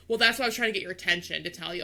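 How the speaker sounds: fast, snippy mock of the worker; mocking sassy tone. Driver mimics the worker's sassy reply, fast mockery. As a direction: rattle it off like a know-it-all. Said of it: "you don't have to be sassy".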